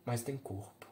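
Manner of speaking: a mother muttering bitterly to herself; muttered to herself. A narrator's reading. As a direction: say it under her breath. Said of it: "o que ela disse para si mesma".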